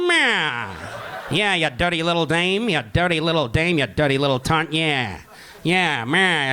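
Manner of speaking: 1920s gangster voice. Pretend. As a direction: talk like a Prohibition mobster, see.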